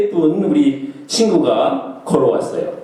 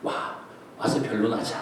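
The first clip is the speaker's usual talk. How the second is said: God inviting; 4 semitones higher than usual. Acted. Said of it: "하나님 말씀이야".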